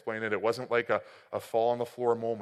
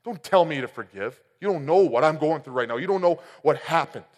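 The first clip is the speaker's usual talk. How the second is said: retold angry protest; 3 semitones higher, 9 dB louder than usual. Young man snapping back at the preacher, angrily. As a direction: push back hard, you don't understand. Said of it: "I'm saying".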